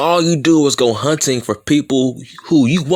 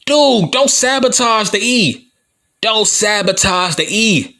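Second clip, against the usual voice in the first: raised, pleading rant; exasperated shout; 6 semitones higher than usual. Real, not acted. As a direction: heel promo, worked up. Heel promo rant at fans.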